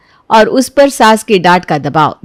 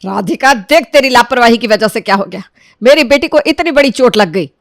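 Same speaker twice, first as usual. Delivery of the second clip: angry blame; 3 semitones higher than usual. Acted. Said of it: "Sheila तो राधिका पर गुस्सा हो जाती है".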